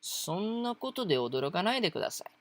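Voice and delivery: fast, firm scolding of そんなことで驚かないでください; brisk, pushy "don't be surprised"; half-annoyed command to calm down; a touch of imperative. Shown as a demonstration. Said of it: "It could even be a little bit, like, imperative".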